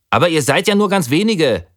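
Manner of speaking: high, dismayed cry. A narrator's reading. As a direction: sound shocked at how few remain. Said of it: "sagte ich bestürzt".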